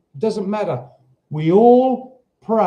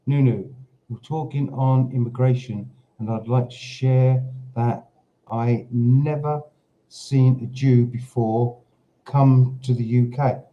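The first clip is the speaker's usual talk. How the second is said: reading a comment aloud; 4 semitones lower than usual. Retold or imitated. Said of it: "Let me just check I've got that right".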